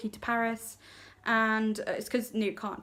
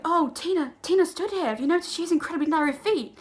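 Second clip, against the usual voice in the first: besotted Newt; 7 semitones higher, 6 dB louder, faster than usual. Retold or imitated. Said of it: "he's like".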